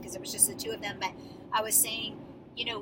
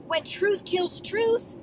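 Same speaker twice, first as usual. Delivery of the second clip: 1 intense slow line; 10 semitones higher, 7 dB louder, much slower than usual. Shown as a demonstration. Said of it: "what am I thinking?".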